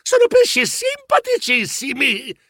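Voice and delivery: nervous stammer, rising at the end; mildly stammered appeasing. Acted. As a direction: stutter to calm an angry shark.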